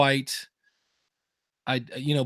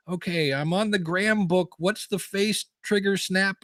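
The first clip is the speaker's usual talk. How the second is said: confused grandpa; 5 semitones higher than usual. Retold or imitated. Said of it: "I felt like grandpa trying to play video games".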